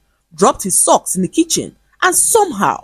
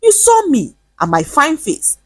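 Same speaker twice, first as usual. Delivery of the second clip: defensive; 3 semitones higher than usual. Acted. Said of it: "confused and defensive".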